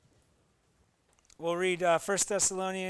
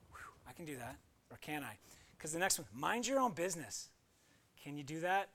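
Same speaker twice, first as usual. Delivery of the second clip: much softer, breathy self-questioning; sighing quietly; 4 semitones lower, 9 dB quieter, faster than usual. Real, not acted. Pastor sighing before the congregation, much softer. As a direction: sigh and wonder half to yourself. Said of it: "sighing, much quieter reflection".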